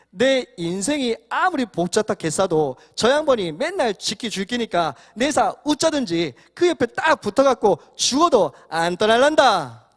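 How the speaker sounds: swooping Gyeongsang lilt, building to a loud finish; Gyeongsang dialect. Shown as a demonstration. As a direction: read the psalm in broad Gyeongsang dialect. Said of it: "경상도 버전을 준비해봤습니다".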